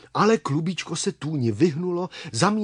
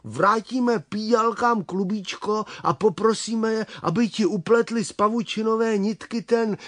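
higher-pitched, brightening proposal; eager idea; 5 semitones higher than usual. Acted. Čmelda proposes the softest handkerchief for her, eagerly. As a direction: pitch the plan up, slowing on the last word.

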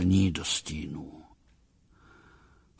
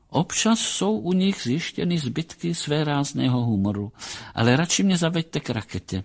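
lightly voiced doctor, a bit higher, musing; composed psychologist; 5 semitones higher than usual. Psychologist humours captain and asks to see rocket, lightly higher voice. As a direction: clinical remark turning into a request.

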